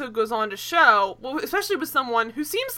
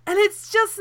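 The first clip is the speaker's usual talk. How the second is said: laughing; 7 semitones higher, 10 dB louder than usual. Real, not acted. Laughing at the show.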